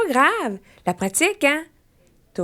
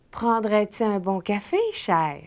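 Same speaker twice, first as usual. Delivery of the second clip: affectionate. Acted. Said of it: "c'est affectueux".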